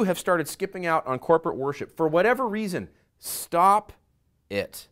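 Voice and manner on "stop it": sudden loud punch on stop; a firm pastoral rebuke. Real, not acted. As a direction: bark the command at them. Preacher scolding skippers.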